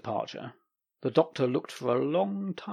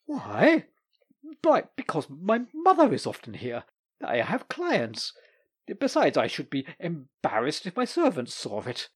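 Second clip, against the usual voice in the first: lightly voiced lawyer, fretful; a hint of an embarrassed bachelor; lawyer's excuse; 3 semitones higher than usual. The lawyer explaining to the Doctor, fretful.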